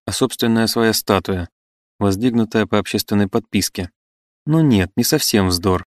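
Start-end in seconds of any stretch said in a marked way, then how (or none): 4.5-5.8 smiling objection. Acted. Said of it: "с улыбкой возразил Басистов".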